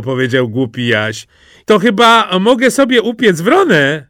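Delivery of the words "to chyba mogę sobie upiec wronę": high, loud, cheeky question; eager request. A narrator's reading. Simple Jack asks to roast his crow, eager request. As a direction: ask boldly and eagerly.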